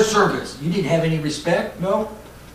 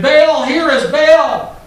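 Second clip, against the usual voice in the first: slow, drawn-out mock scream, higher and louder; retold scream; 9 semitones higher, 7 dB louder, much slower than usual. False prophets calling on Baal, slow mock scream. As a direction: imitate false prophets wailing to their god. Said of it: "They start screaming".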